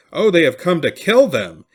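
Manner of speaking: high, loud, terrified scream. A narrator's reading. Washoe woman sees armed men marching in, screaming. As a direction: shriek it out in panic as the soldiers arrive. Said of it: "began to scream".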